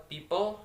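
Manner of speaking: "people" with first syllable lifted, second falling; first-syllable stress. Shown as a demonstration. Student showing word stress in "people", first syllable stressed. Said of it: "the word stress that is people".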